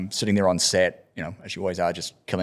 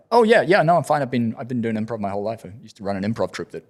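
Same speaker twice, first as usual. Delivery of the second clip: eager reassurance; 3 semitones higher, 3 dB louder than usual. Retold or imitated. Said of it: "I was like".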